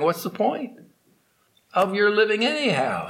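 an arrogant scholar belittling his boatman, scornful; scornful pundit. Acted. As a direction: pile the scorn on the poor ferryman.

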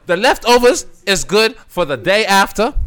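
high rapper impression, ranting; a rapper. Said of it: "That's my rapper voice".

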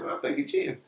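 high whisper, barely voiced; whispered aside. Real, not acted. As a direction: whisper it like gossip. Conspiratorial aside about husband.

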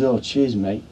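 lightly imitated Cockney soldier; Cockney accent. Wounded soldier thanking the medic, in a light Cockney accent. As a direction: retell it with a touch of Cockney. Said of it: "in a Cockney accent".

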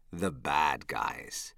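ominous. Acted. Ominous podcast intro.

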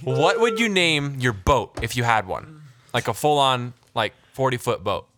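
saucy country voice. Pretend. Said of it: "do my saucy country voice".

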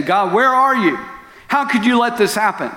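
high, strained cry up at God; retold desperate yelling. Husband yelling at God in his bedroom, anguished. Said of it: "I yelled at the ceiling".

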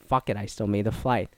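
whispered relief; muttered aside. Retold or imitated. Tourist relieved after boarding, whispered to himself. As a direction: breathe it under your breath. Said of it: "But then I was like".

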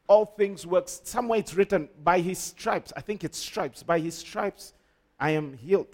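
unsure reciting. Acted. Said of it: "No, not like that".

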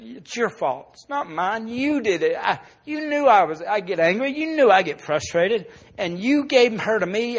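retold angry accusation, building; mildly heated rant, growing firmer; mad, blaming. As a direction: throw the blame back at God. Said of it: "I got mad and I was giving it to God".

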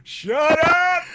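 angry snap. Acted. Villain snapping back.

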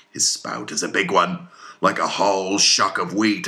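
lightly voiced sea captain, drawn-out emphatic words; Ahab, fervent captain. Ahab answers his harpooneers about the whale's spout, fervent. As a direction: declaim it to the crew with growing force.

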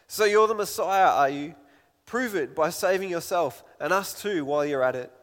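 loud, sneering challenge to the Messiah; scoffing. Acted. Criminal on the cross scoffing at Jesus, loud and sneering. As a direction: scoff at him, daring him to prove it.

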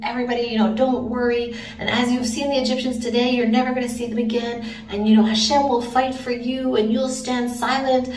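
mildly rousing reassurance; Moshe. Acted. Moshe rallying the people at the sea, lightly acted leadership. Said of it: "amazing leadership saying".

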